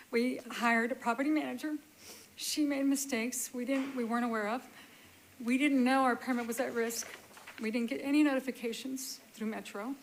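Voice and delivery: real emotion pushing through; fighting back feelings, pressing on; emotional. Real, not acted. Homeowner pleading before the board, emotional. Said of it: "sorry, I'm getting emotional".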